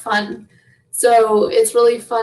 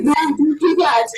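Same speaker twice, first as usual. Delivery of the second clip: laughing protest; 4 semitones higher than usual. Retold or imitated. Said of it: "He's like".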